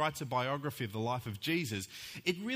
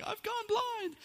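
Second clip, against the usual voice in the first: high-pitched, hammed-up child's alarm; mock panic; slower than usual. Scared son waking in a pitch-dark new house, mock panic. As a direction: imitate a panicked little boy, voice shooting up.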